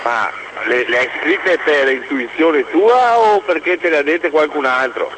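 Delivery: caller on a phone line; thin telephone sound; over the phone. Real, not acted. Caller phones into radio show.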